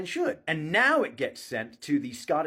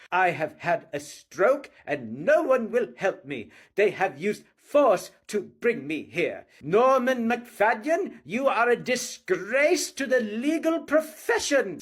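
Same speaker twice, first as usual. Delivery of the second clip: slow, lightly voiced outburst at the judge, rising high at the end; hammed-up indignant yell; imitating a defendant shouting in court; mock angry shout; 6 semitones higher, slower than usual. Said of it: "he started shouting at the judge".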